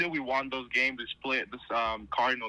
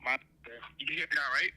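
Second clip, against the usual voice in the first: phone speaker; faster than usual. Real, not acted. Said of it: "I got you on speaker".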